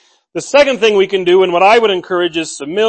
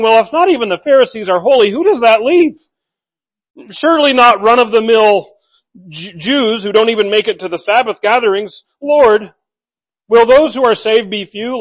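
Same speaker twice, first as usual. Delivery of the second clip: voicing the questioner; 2 semitones higher than usual. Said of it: "this Jewish Israelite was saying".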